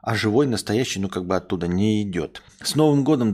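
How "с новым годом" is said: festive greeting. Real, not acted. New Year greeting to viewers.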